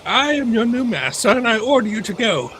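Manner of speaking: high, haughty cartoon baby villain; Stewie Griffin. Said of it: "To quote Stewie Griffin from Family Guy".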